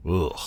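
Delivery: short groan of distaste; disgusted groan. Acted. Speaker groans to listener at being made to confess, disgusted. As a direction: groan at your own words.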